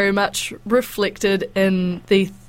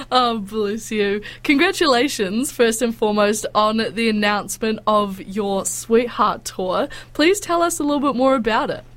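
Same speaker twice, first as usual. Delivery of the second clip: stuffy nose. Real, not acted. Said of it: "You sound like you've got a cold".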